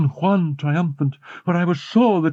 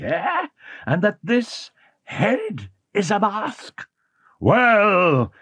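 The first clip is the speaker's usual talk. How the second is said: hissed taunt; 4 semitones higher, slower than usual. A narrator's reading. Eric sneering at the frightened Christine, hissed and slow. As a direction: taunt her from the dark. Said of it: "Eric hissed at me".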